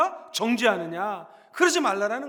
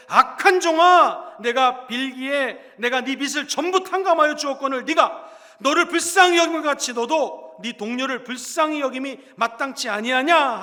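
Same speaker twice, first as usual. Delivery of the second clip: stern rebuke; 8 dB louder than usual. Acted. Master rebuking his wicked servant, booming and stern. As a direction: thunder it down like an angry master.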